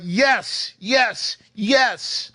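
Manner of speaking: pumping himself up after committing; excited yes. Retold or imitated. Excited yes after deciding, high and giddy. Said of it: "so excited".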